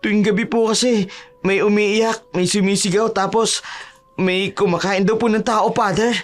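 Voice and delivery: put-on high-pitched childlike storytelling; frightened Tolits. Tolits tells Father of crying and screaming at night, frightened. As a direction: list the scary rumours in a high young voice.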